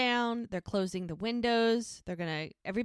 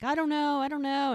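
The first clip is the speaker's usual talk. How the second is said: higher and louder, overwhelmed; flustered outburst; 7 semitones higher, 5 dB louder than usual. Retold or imitated. Nick cornered by the frightened crowd at the bar, flustered outburst. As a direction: throw up your hands and cry it out, higher and louder.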